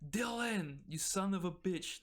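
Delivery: high, exuberant buddy greeting; hearty greeting. Acted. Driver helping the party up with a high five, hearty. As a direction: hail an old pal with mock bravado.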